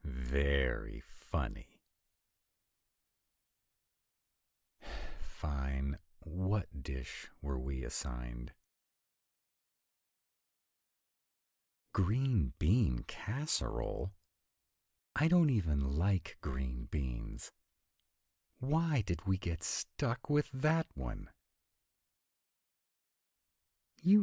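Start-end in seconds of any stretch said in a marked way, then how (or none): 0.0-1.8 slow, drawn-out dry retort; slow sarcastic comeback; unamused sarcasm. Acted. 18.6-21.3 high-pitched exasperated protest; dismayed, pitched way up; whiny complaint. Acted. Complains about the assigned dish.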